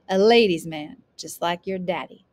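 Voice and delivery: teasing grandmother, loud first words. A narrator's reading. Grandmother teasing grandson about the girls, playful. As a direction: needle him playfully. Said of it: "his grandmother teased".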